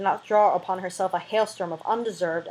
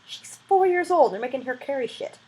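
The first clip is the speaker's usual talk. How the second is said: indignant aside; 6 semitones higher than usual. Real, not acted. Reader turns to listeners in disbelief. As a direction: spell out the outrage before it fades.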